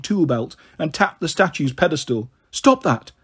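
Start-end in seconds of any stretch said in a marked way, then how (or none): 2.5-3.1 insisting. A narrator's reading. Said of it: "Terminus insisted".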